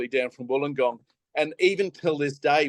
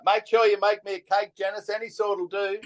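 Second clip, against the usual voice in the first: higher-pitched mock call; retold yelling out; 6 semitones higher than usual. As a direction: call to a cousin in the next room, without much volume. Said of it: "I'm just yelling out".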